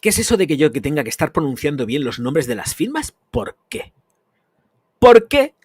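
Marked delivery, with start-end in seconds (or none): 3.3-3.9 a sudden whispered question, under the breath; whispered why. Real, not acted. Ranting vlogger asks viewers why, whispered. Ranting about pronouncing brand names. 5.0-5.5 much higher and louder indignant why, rising; shouted why. Real, not acted. Ranting vlogger challenges viewers why, shouted. Ranting about pronouncing brand names.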